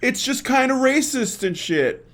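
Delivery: high, whiny mock of backpedalling critics; mocking backpedal. Host mocking backpedalling critics, high whiny voice. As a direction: ham up their nervous backpedal, pitch up. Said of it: "and they say".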